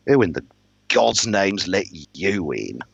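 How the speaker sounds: slow, drawn-out disdain; scornful lord's demand; sneering lord. Acted. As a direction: sneer at an unwelcome guest, dragging the words. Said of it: "the look on his face was a sneer".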